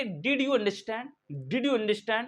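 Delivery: slowly spelled-out question; slow demo question; slow model sentence. Shown as a demonstration. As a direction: drill it slowly for learners. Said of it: "तो इसको English में कैसे बोलेंगे?".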